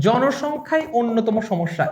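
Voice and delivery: slow sentence with জনসংখ্যাই emphasised; single out জনসংখ্যাই as the main culprit; stress on জনসংখ্যাই. Shown as a demonstration. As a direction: put the weight on জনসংখ্যাই, then finish অন্যতম সমস্যা. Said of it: "একটু জোর দিলাম না".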